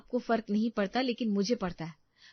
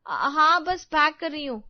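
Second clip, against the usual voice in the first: louder, higher startled answer; flustered reply; 8 semitones higher, 7 dB louder than usual. Acted. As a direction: caught off guard, rush the reply. Husband asks, she is caught off guard. (हड़बड़ाकर ऊँची आवाज़ में जवाब)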